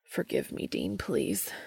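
mild anguished pleading. A narrator's reading. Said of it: "the anguish in his voice".

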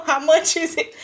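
high, hammed-up uncle asking. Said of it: "my uncle say he needs some".

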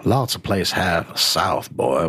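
slow put-on southern drawl; southern accent. Guard answers about the visitor, slow southern accent. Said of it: "with a charming southern accent".

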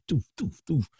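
soft, high "doof" for cars speeding off; quick little puffs of sound, each one a car leaving; imitated whoosh. Man mimics police cars taking off, imitated whoosh.

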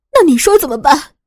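loud desperate question; desperate plea. A narrator's reading. Narrator pleading with the armed husband, loud and desperate. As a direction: push back with desperation.

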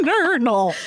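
"neuronal" squeezed out high through laughter; laughing pronunciation. Real, not acted. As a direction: giggle the word "neuronal" with a laugh still in it. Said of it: "Neuronal cell bodies".

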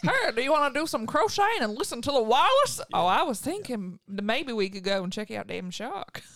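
lightly put-on old-timey voice; a hint of an old-fashioned lady. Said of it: "Didn't sound Australian".

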